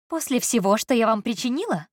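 incredulous exclamation. Acted. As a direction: she can't believe the kindness. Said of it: "недоверчивый возглас".

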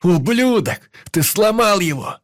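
screaming at the friend who broke the compass; raging scream. Acted. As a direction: lose all control. Hero loses control, screaming.

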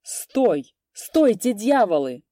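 loud shout to stop the fight. A narrator's reading. Peasants shouting to halt a brawl, loud. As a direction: yell at them to stop. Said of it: "закричали мужики".

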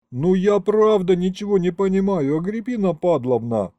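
high, earnest protest of innocence; pleading. A narrator's reading. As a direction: beg her to believe you. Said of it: "взмолился я".

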